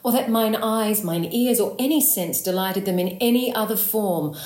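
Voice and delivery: impassioned verse, stretched out on the closing words; building dramatic plea. Acted. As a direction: pile up each phrase with feeling, driving to the end. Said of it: "add and accumulate and build that feeling driving towards".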